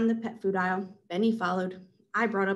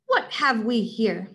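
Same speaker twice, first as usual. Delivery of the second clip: louder, slow hero voice; booming authoritative; 4 dB louder, slower than usual. Acted. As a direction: boom it with authority. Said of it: "booming, authoritative voice boomed".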